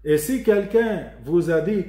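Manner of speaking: ordinary talk, nothing marked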